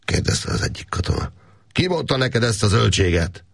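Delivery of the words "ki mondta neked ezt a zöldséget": high, furious scolding; angry shout. A narrator's reading. Káptalan scolds the soldier for the rumour, furiously. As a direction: bark down the soldier's nonsense. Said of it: "kiáltott dühösen Káptalan".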